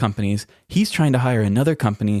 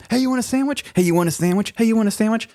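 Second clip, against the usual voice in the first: mimicking sandwich offer; 10 semitones higher, faster than usual. Coworker offering sandwiches repeatedly.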